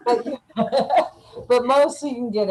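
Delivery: fast, chuckling through the words; laughing. Real, not acted. New immigrant chuckling about missing malt vinegar, laughing fast. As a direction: laugh it off and hurry on.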